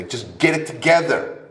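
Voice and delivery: mock impatient nagging; exasperated. Speaker voices his impatience at the struggling guy, exasperated.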